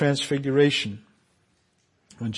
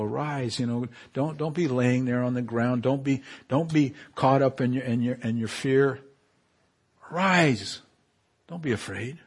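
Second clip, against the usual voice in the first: gentle Jesus. Acted. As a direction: comfort them like someone lifting a frightened friend. Jesus comforts frightened disciples.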